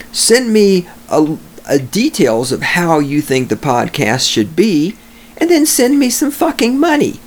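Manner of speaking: high mocking squeal asking for money; mock squeaky demand.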